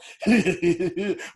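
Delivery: a hammed-up villain cackle; mock maniacal laugh. Retelling the TV villain's reveal with a mock maniacal laugh. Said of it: "maniacal laugh".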